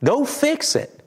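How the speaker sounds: high, firm command; firm divine command; voice of God. Retold or imitated. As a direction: tell them plainly to go fix it. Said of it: "God says".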